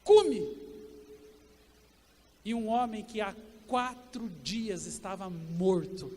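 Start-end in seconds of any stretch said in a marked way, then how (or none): 0.0-0.6 loud, higher call of the Hebrew word Come; loud command. Retold or imitated. Preacher voicing Jesus calling Lazarus out, loud and higher. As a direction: shout it out like calling someone out of a tomb. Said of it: "Jesus só diz assim".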